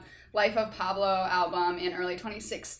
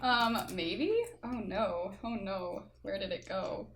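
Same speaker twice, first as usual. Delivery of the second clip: talking through a mouthful of mustard; words round a bite of food; mouth full; 6 dB quieter than usual. Real, not acted. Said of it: "while your mouth is full of mustard".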